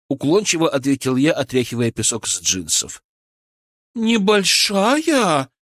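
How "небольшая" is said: slow, high outraged echo; indignant. A narrator's reading. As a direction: throw the word back, offended. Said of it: "возмутилась Вероника".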